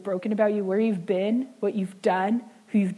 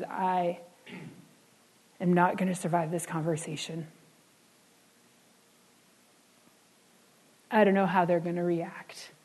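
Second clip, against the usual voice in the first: whisper; 2 semitones lower, 3 dB quieter than usual. Retold or imitated. Voicing a frightened confessor.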